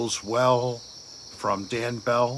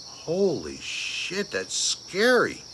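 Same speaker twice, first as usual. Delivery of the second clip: hushed fright; 4 semitones higher, slower than usual. Real, not acted. Frightened by figure in window.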